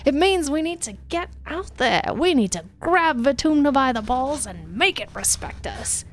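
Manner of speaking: high, pumped-up oratory; fiery rally speech. Acted. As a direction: rouse the crowd. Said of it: "clenches his fist evocatively".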